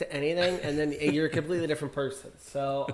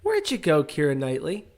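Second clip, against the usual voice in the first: mock call out; 6 dB louder than usual. Calling after a vanished star.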